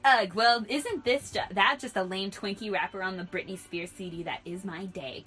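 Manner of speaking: loud, exasperated whine, easing off; whining. Acted. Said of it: "Kyrie whined".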